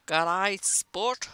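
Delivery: loud, hammed-up Australian accent. Shown as a demonstration. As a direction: call it out in a put-on Aussie accent. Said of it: "about as Australian as I could get".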